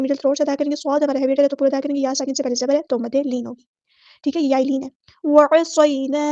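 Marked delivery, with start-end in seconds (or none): 5.2-6.2 वअसैना drawn out with a long final a; slow recitation. Shown as a demonstration. Teacher modelling for students, slow. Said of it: "अलिफ मद आ गया तो मद इसलिए करेंगे".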